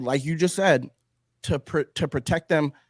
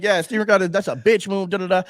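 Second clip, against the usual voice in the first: imitating Candace Owens; 4 semitones higher, 4 dB louder than usual. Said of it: "she's like".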